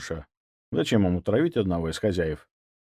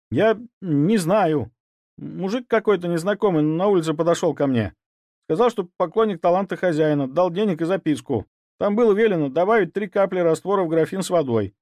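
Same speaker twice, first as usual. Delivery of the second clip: higher, scared words tumbling out; frightened blurt; 8 semitones higher, 3 dB louder than usual. Acted. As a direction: blurt everything in fear. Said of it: "выпалил испуганный слуга". (испуганно выпалить)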